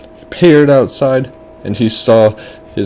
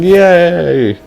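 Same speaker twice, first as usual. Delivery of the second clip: put-on high, drawn-out kid cheer; 8 semitones higher than usual. Boy allowed into the tent, high excited cheer. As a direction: cheer like a delighted little boy. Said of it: "And the kid's like".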